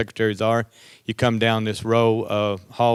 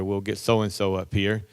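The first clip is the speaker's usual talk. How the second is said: quieter, lower calm reply; 3 semitones lower, 5 dB quieter than usual. Retold or imitated. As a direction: settle them down. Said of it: "take things very calmly".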